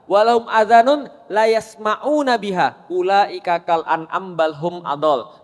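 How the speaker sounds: solemn recited Arabic verse; Quran recitation. Acted.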